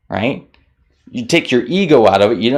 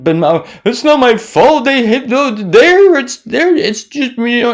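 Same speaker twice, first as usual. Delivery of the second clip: retold panic; 13 semitones higher, 4 dB louder than usual. Retold panicked thoughts after firing.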